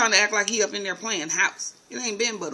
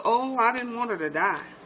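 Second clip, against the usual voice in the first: Melly; 5 semitones higher, 5 dB louder than usual. Retold or imitated. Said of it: "She goes".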